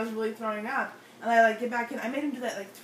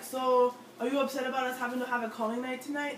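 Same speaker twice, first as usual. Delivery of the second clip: badly imitated Spanish accent, slightly raised pitch; awful Spanish accent; 3 semitones higher than usual. Retelling Carlos's question about calling night, bad Spanish accent. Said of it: "That was an awful Spanish accent".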